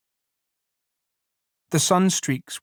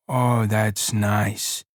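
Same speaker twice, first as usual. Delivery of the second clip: very slow, lower and lost in it; dreamy pleasure; 4 semitones lower, much slower than usual. Acted. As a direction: sink into the words. Lenny repeating, slower.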